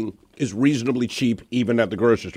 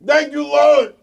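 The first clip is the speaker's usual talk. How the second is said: preacher praise; 12 semitones higher, much slower than usual. Pretend. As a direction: shout thanks to the Lord like a revival. Mock praise to the heavens.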